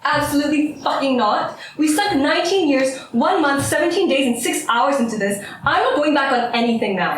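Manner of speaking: emphatic, counting off each grievance; worked-up, insistent argument; angry refusal. Acted. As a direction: refuse flatly, hammering each phrase.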